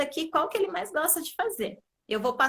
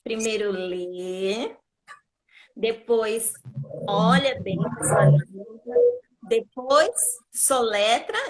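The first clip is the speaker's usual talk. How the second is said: slow step; 2 semitones lower, 4 dB louder, slower than usual. Shown as a demonstration. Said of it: "tem um passo a passo".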